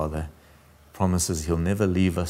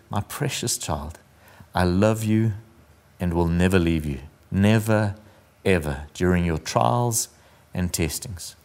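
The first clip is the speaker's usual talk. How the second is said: poem reading. Acted. The Lord reassuring the dreamer, gently read. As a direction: let the promise settle down to a hush.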